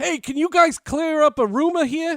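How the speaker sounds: put-on thick New York accent, very loud and high. Retelling a caller from the Stock Exchange trading floor on the phone, thick New York accent. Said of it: "with a thick New York accent".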